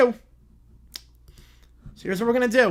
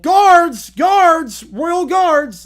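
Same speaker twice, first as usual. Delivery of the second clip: very loud, high frantic calls; yelled; 8 semitones higher, 11 dB louder, much slower than usual. Acted. Little Princess ducking eggs, yelling for guards. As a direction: scream for help like a panicked royal. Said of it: "ducked and yelled".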